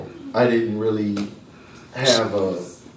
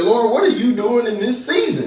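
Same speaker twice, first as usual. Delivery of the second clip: pleading to God; 11 semitones higher than usual. Retold or imitated. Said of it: "and I said".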